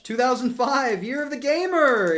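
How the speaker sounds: mock proclamation. Triumphant new year proclamation.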